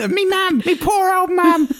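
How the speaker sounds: hammed-up Birmingham accent, laughing; comic Brummie mum. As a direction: lean into the Birmingham vowels. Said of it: "My mum".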